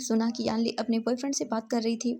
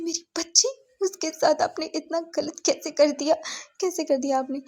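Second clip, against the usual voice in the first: grieving mother; 5 semitones higher than usual. Acted. Mother confronts the father.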